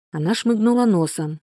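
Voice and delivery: usual speaking voice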